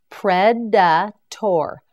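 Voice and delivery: Predator. split slowly into its parts; Predator. stretched to twice its length; slow syllable-by-syllable. Shown as a demonstration. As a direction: spell it out in sound, very slowly. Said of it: "You say it".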